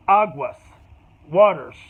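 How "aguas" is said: aguas said the Spanish way, AH-gwas; Spanish word. Shown as a demonstration. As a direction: say aguas as a Mexican warning. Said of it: "they say".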